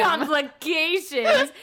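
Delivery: drawn-out, teasing echo; slow, playful repeat of a friend's word; mock echo. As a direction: stretch the word out mockingly. Echoes co-host's phrase mockingly.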